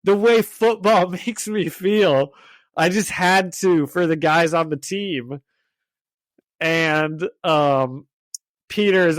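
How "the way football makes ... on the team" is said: slow, higher mock Russian accent; drawn-out Russian-accented impression. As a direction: gush slowly in a put-on Russian accent. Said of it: "he's doing it all in, like, a Russian accent".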